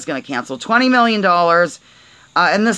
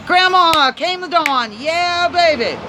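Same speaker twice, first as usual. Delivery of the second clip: triumphant hammed-up cheer; 9 semitones higher, slower than usual. Triumphant joke after getting word.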